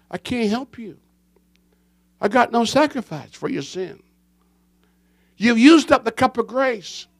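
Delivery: remote God voice. Acted. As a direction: speak it cold and far away. God's cold refusal quoted.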